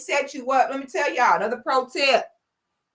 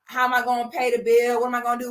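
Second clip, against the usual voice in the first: mock complaining man; faster than usual. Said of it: "come to you complaining".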